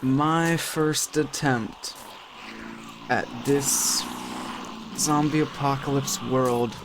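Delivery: slow, hushed dramatic narrator; mock-solemn narration. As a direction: narrate your own downfall gravely, with long pauses. Mock-solemn narration of his death.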